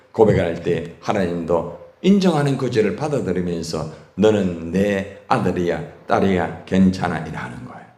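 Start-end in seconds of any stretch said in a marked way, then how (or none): 4.1-7.2 slow, gentle comfort from God; slow tender reassurance. Acted. God forgiving the confessing child, slow and tender. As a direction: ease the sinner's heart slowly.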